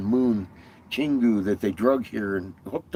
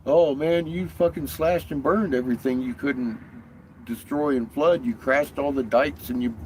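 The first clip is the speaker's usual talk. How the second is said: mock yelling; 4 semitones higher than usual. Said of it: "yelling at Enlil".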